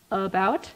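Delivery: slow "about" starting on a schwa, uh-BOUT; reduced first vowel. Shown as a demonstration. Linguist gives English schwa example, slow uh-BOUT for "about". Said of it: "often reduce to schwa".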